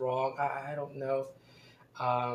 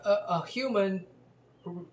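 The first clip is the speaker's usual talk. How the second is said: indignant demand; 4 semitones higher than usual. Retold or imitated. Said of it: "as if to say".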